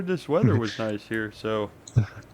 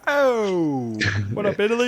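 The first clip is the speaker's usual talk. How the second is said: put-on New York Italian accent; 7 semitones higher, slower than usual. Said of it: "New York Italian accent".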